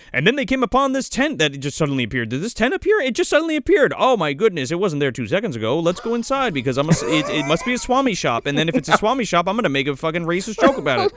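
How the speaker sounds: rattled-off old dubbed cartoon narration; overacted anime dub. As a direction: spit the lines out fast like a seventies dub. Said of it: "your impression of it sounds like an old anime dub".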